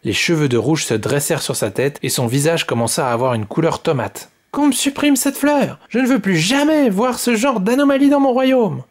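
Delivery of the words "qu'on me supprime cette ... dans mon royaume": very high, louder furious order; high-pitched angry royal order; furious cry. Acted. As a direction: shriek the command like an enraged child queen. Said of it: "cria-t-elle".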